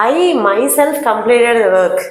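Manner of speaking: slow dictation. Shown as a demonstration. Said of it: "ఇలా పక్క పక్కనే వస్తాయి".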